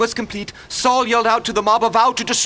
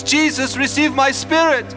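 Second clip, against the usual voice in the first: raised, higher-pitched quoted cry; retold loud cry; 5 semitones higher, 3 dB louder than usual. Witness quoting Stephen under the rocks, raised cry. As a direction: lift the voice as if crying out. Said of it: "he cried out in a loud voice".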